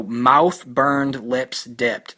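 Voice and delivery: "mouth, burned, lips dipped" as four separate even beats; all words stressed. Shown as a demonstration. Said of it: "four words in a row, all stressed".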